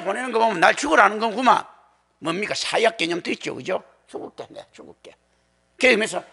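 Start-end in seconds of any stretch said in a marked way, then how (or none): 4.1-5.2 softly muttered, offhand resignation; hands-in-pockets nonchalance. Acted. Preacher voicing Jesus accepting death, quiet and nonchalant. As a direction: give in casually, much quieter than usual. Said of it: "주머니 손 탁 넣고 이야기하는".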